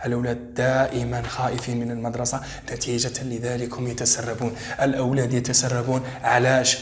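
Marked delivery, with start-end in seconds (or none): none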